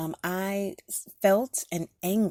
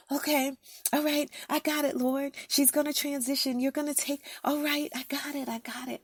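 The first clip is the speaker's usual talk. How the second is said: resigned acceptance; 8 semitones higher than usual. Retold or imitated. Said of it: "sometimes you're in prayer and you're like".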